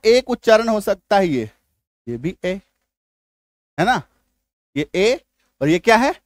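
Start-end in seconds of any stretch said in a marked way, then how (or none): 4.9-5.2 ए as one pure long e; single-matra vowel. Shown as a demonstration. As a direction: say ए steadily, without a glide. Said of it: "ये एकार की मात्रा को जन्म देता है".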